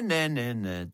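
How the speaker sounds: plain reading voice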